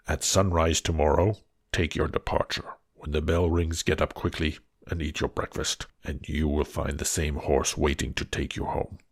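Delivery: low, looming beast voice; a monster asking gently. Acted. Beast asks Beauty if she came willingly, low and heavy.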